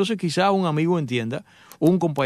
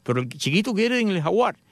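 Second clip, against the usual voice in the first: son insisting; 6 semitones higher than usual. Retold or imitated. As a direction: insist like a spoiled boy. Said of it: "y te dice".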